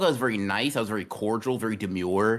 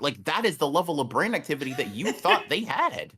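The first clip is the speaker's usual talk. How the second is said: excited rant; 5 semitones higher than usual. Real, not acted. Heated absurd rant, high voice.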